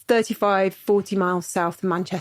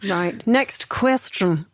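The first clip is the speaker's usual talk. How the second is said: slow, slight German accent; a touch of German accent, slowly; much slower than usual. Real, not acted. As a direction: slip into a German accent, drawn out. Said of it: "said that in a German accent".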